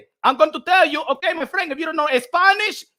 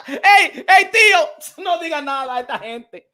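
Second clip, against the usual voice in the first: laughing aside; 2 semitones higher, 4 dB louder than usual. Pretend. Telling Teofimo to stay silent.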